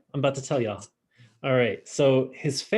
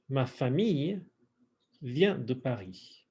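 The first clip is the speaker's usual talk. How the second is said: phrase in pieces; 3 dB quieter than usual. Shown as a demonstration. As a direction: split the phrase for repetition. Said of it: "let's do some pronunciation work".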